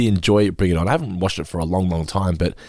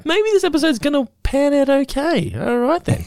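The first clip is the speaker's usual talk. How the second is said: retold relief. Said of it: "I was like".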